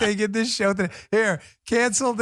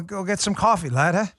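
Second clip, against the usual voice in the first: half-hearted British lad; terrible English accent; 2 semitones lower than usual. Pretend. Host telling off the wrecked guest, badly faked English accent. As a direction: lightly attempt a bad English accent. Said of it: "really terrible English accents".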